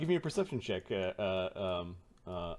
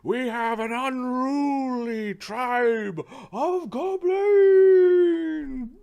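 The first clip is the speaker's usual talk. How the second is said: slow, loud, high-pitched drawn-out proclamation; arena announcer; 12 semitones higher, 9 dB louder, much slower than usual. Acted. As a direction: build to a huge stretched shout on the last word.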